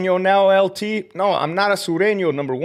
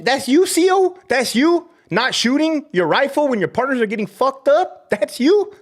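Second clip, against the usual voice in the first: mocking taunt; 10 semitones higher than usual. Real, not acted. Ex-guard jeering at cowardly former colleagues, mocking. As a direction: taunt them with a sneer.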